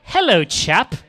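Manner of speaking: hammed-up British greeting; British chap impression; mock British accent. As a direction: put on a playful British accent. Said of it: "read this with a British accent".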